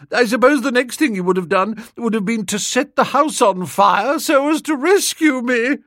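put-on girl scolding Bertie by the lake; high, loud young lady. A narrator's reading. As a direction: chide him fondly, pitched high. Honoria voiced.

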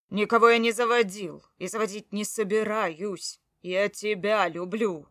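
mean every word; loud declaration. Acted. Husband declares love in quarrel.

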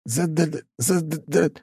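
high, chattering frightened stutter; terrified stammer. A narrator's reading. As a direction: teeth chattering with fear. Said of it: "он настолько испугался". (испуганное заикание, высоко, зубы стучат)

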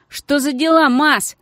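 loud, angry thug's call; angry shout. Acted. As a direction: bark it angrily at his mate. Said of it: "злобно крикнул третий".

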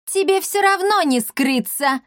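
high indignant cry. Acted. Barianna calling up to the mayor, indignant. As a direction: call him out, outraged. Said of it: "возмутилась Барианна".

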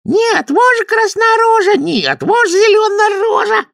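high, loud squeaky taunt; teasing kikimoras. A narrator's reading. Kikimoras taunt the friends, high loud chant. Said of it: "кикиморы дразнятся".

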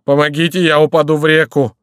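high, loud plea; wailing character voice in distress; cry for help. A narrator's reading. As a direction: shout for rescue in a panic. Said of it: "кричал Горанфло".

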